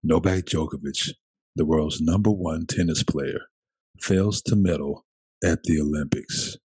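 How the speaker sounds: NPR voice. Shown as a demonstration. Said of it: "in my voice".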